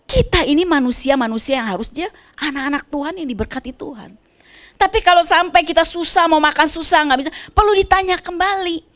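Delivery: rising, fervent sermon voice; preaching. Acted. Pastor exhorting the congregation, fervent preaching. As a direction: preach it out to the church.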